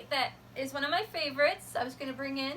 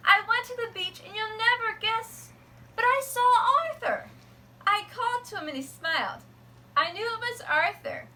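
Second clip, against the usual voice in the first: put-on much higher, louder, thrilled child; overjoyed girl; 8 semitones higher, 4 dB louder than usual. A narrator's reading. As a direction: burst with joy at seeing Arthur. Happiest day letter.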